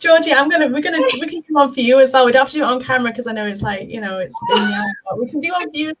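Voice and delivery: fighting back happy tears as she speaks to Georgie; tearful. Real, not acted. Touched guest answering the host's emotional thanks, on the verge of tears. Moved by the viewers' loving messages.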